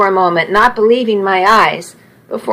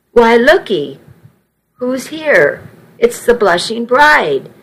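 happy exclaim; 3 semitones higher than usual. Acted. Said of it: "Nana cried happily".

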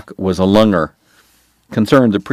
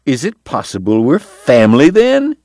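eager Irishman; 5 semitones higher than usual. Acted. Eddie teases Doc eagerly.

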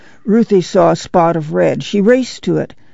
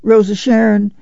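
cried out; 6 semitones higher than usual. Acted. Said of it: "Ma cried".

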